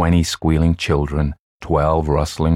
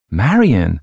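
louder, higher questioning call; calling across; 5 semitones higher, 6 dB louder than usual. A narrator's reading. Louise asks again across the cellar, calling. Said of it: "asked Louise again from far across the cellar".

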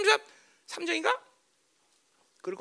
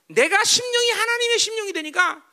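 emphatic preaching; 10 semitones higher, 4 dB louder than usual. Real, not acted. Preacher hammers home his point.

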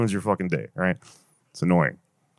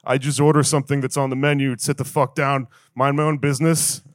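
Dos Equis guy rewrite. Retold or imitated. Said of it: "Next Dos Equis movie's like".

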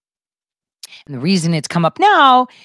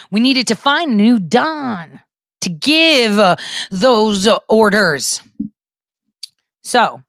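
normal talking voice

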